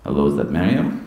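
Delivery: low, questioning phone caller; lightly imitated football manager; Jose Mourinho. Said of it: "this voice went".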